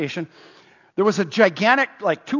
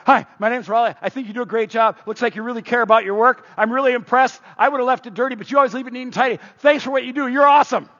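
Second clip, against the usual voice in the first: eager praise; 4 semitones higher, faster than usual. Retold or imitated. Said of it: "I go".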